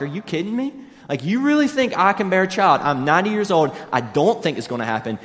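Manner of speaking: high, loud mock disbelief, easing down at the end; mock incredulous laughter. Sarah answering God's promise of a baby, mock incredulous. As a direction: play Sarah scoffing at an absurd promise. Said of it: "She busts out laughing. She's like".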